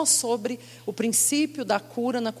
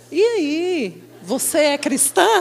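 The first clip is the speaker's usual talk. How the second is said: laughing question; 4 semitones higher, 4 dB louder, slower than usual. Retold or imitated. Playful question at counter.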